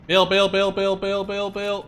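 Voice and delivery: urgent bail call. Real, not acted. Urgent order to leave tank.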